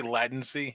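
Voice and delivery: latency said with a short "a", LAT-en-see; mimicked mispronunciation. Co-host doubting the friend's word, latency as LAT-en-see. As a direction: open latency with "lat", not "lay". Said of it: "or as Corey says, latency".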